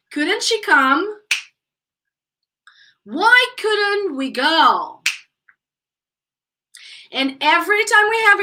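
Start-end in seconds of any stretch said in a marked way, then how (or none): 0.1-1.2 slow, higher question ending upward on "come"; careful drill question, "come" raised; pronunciation model. Shown as a demonstration. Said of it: "let's check pronunciation". 3.0-5.0 very slow, word-by-word question; slow drill question with falling end; pronunciation model. Shown as a demonstration. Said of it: "let's check pronunciation".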